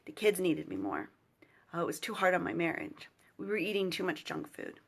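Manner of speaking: whispering through real tears, fighting to keep it together; choked up. Real, not acted. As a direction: voice catching as she quotes the excuse. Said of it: "I'm gonna get a little choked up".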